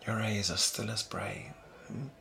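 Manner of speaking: soft, unhurried compliment; tender. Acted. Praising a partner's sparkly eyes on an evening together, tender.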